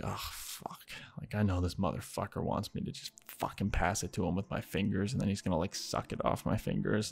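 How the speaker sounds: soft, under-the-breath grumble; dreading inner groan. Retold or imitated. Host realizing what his guest wants, quiet dread. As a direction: quietly dread it, as if thinking aloud.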